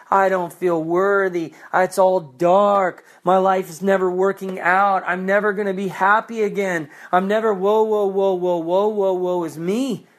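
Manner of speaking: hammed-up whining woe; mock self-pity. Preacher mocking the self-pitying believer, hammed-up whine. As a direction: wallow theatrically, wailing woe. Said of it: "Self-pity".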